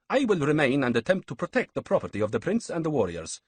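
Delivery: high, mannered priestly voice; sly priest. Acted. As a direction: savour the boast of killing. Manzik continues, higher voice.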